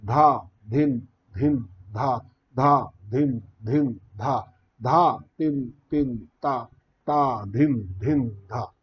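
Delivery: bols chanted closer together. Shown as a demonstration. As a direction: tighten the gaps, speed up the rhythm. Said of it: "इसको अगर हम कम कर देंगे".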